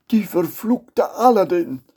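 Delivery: put-on hissed whisper of a furious old sultan; whispered rage; whispered curse. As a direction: spit out the name in a whisper.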